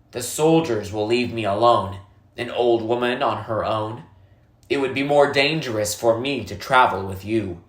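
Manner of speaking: a lightly voiced old woman, calm and grave; old woman, somber. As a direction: explain the dry season to the boy gently.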